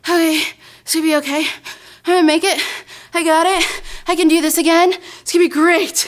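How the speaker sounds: nervous self-reassurance. Retold or imitated. Nervous rider psyching herself up.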